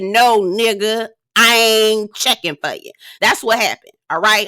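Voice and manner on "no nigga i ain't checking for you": bassy mock Vanessa. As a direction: drop the voice and brush him off. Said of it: "so much bass in my voice".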